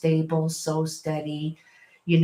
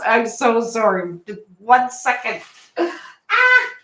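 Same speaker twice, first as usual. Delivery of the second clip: high-pitched call while rushing off; dashing away, voice jumping up; hurried running; 7 semitones higher, 5 dB louder than usual. Real, not acted. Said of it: "I'm running".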